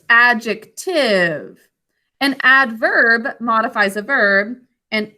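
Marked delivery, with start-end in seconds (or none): 0.1-1.7 adjective, drawn out slowly; slow, clear teacher correction. Shown as a demonstration. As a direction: stretch out adjective to correct the answer.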